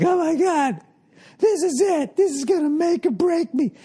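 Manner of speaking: high, eager hope; excited inner voice. Retold or imitated. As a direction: sound thrilled at the big chance. Excited younger self.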